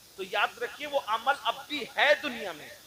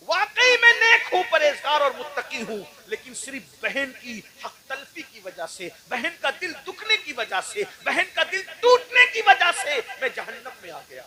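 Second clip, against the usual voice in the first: much higher and louder, a crying sermon climax; impassioned preaching; 6 semitones higher, 12 dB louder than usual. Acted. The damned soul's lament told to the crowd, impassioned preaching. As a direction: wail it out for the crowd.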